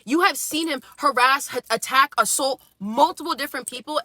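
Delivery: retold indignant dressing-down; ripping into him. Young woman refusing the bakery owner's praise, ripping into him. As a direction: lay into him with restrained, emphatic outrage. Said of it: "ripped him a new one too".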